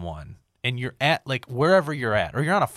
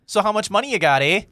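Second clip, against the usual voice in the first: higher, louder mock Canadian accent; 10 semitones higher, 7 dB louder, faster than usual. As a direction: ham up a northern Canadian accent with a big eh. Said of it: "So they're Canadian".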